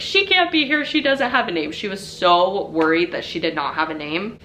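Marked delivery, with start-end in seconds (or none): 0.0-1.7 put-on freaking out kid. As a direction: imitate a little girl wailing in alarm. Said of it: "she's freaking out".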